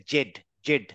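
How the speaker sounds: জেড with the tongue touching the teeth. Shown as a demonstration. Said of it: "জিভটা গিয়ে দাঁতে লেগে যায়".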